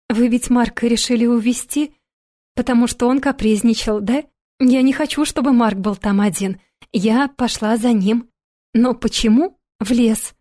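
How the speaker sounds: put-on a small child anxiously asking about her brother; little girl pleading. Little girl Sofi speaks.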